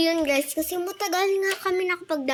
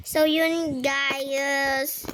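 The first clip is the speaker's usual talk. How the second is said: slowed voice changer; much slower than usual. Pretend. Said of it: "Voice changer".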